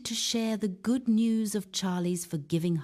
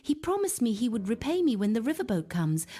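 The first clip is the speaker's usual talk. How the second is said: roaring; 8 semitones higher than usual. Acted. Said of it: "Charlie roars".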